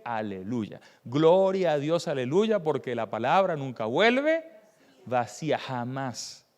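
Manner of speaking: drawn-out, rising hallelujah praise; retold jubilant declaration; exultant praise. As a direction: proclaim it slowly and triumphantly, settling at the end. Preacher retells his own exultant praise.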